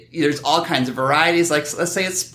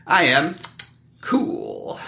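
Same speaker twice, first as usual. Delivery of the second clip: cool guy voice; much slower than usual. Pretend.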